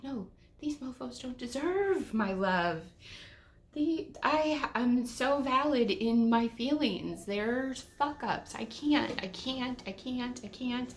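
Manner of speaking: high, heated, self-righteous outburst; indignant rant. Retold or imitated. About the ignoring store clerks, a high indignant rant. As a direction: vent it like you're fed up and valid. Ranting inner voice about employees.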